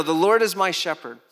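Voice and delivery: said out loud and strong; proclaimed. Shown as a demonstration. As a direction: declare it boldly.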